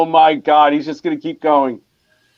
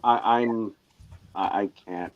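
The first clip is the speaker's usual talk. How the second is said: helpless laughing; 12 dB quieter than usual. Real, not acted. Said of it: "he's just crying now".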